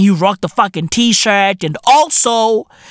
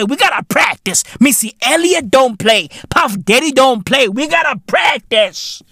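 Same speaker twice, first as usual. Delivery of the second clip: imitating the family; 3 semitones higher than usual. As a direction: play the noisy family defending their dancing. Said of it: "the family was like".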